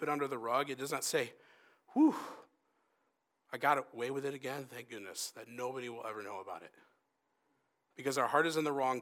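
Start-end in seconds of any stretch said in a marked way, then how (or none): 1.9-2.1 short high whistled exhale; mock sigh of relief; relieved whew. Acts out relief at getting away. 3.5-6.7 quick, then dropping low and soft; acted sneaky relief, trailing quieter; mock relief. Acts out secretly getting away with it.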